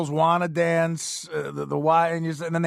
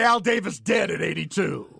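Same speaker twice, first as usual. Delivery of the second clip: shouted announcement. Pretend. DJ blurts sports news.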